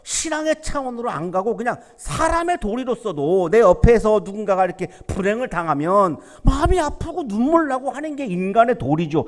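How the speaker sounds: usual speaking voice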